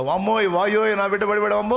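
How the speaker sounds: high, loud mock wail; hammed-up wail of a panicked mother. Mother wailing that her fallen child is hurt, high and loud. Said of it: "అని కాగేసి".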